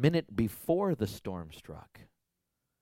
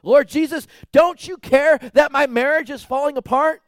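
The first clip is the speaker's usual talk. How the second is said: much higher and louder pleading cry; desperate plea; 14 dB louder than usual. Retold or imitated. Preacher voicing a sick believer crying out to Jesus, pleading.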